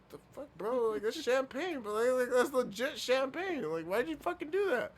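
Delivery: mock Mister Perfect. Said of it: "Mister Perfect looks back at it like".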